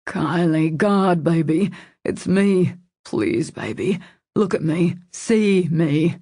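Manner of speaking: urgent, pleading male character; anxious appeal to a loved one; worried plea. A narrator's reading. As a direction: plead with concern to be looked at. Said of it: "Jensen's worried plea broke through".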